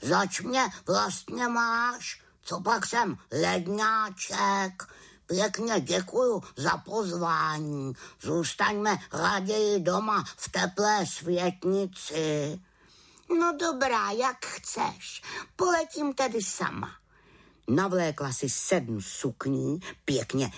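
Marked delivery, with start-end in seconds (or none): 0.0-12.6 indignant pet raven, high and slow; a huffy old bird who prefers the warm room; grumpy raven. Acted. Raven refuses to fly. 13.4-16.9 little witch, high and eager; a young witch coaxing her friend out, pitched high; high voiced little witch, keen to fly. Witch shrugs him off.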